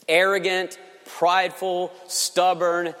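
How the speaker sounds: usual speaking voice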